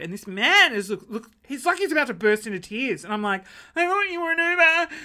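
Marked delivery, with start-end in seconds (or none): 3.8-4.9 high, loud near-tearful plea; apologising, almost crying; distraught. Retold or imitated. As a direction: plead in distress. Apologising to frightened man.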